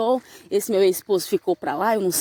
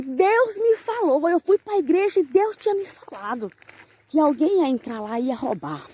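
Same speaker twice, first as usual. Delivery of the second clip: imitating the sister; 5 semitones higher than usual. Church sister announcing that God warned her, high mimicking voice. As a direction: mimic her in a raised, stretched-out voice.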